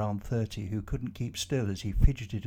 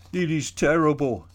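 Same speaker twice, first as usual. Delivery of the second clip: higher, earnest foreign man's voice, pressing on; Jacob pleading his cause; 5 semitones higher, 9 dB louder than usual. Acted. Jacob explains the bomb to the trapped office workers, higher and urgent.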